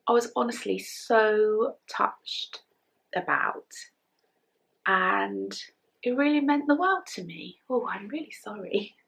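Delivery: real welling-up, fading toward a whisper; emotional, touched. Real, not acted. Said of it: "Told you I was emotional today".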